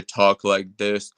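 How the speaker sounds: a hint of a put-on voice; Nathan. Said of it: "Nathan talks like that in person".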